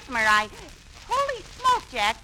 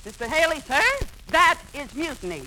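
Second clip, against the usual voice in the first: blustery admiral; 4 semitones higher than usual. Pretend. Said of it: "it's Admiral Davis to you".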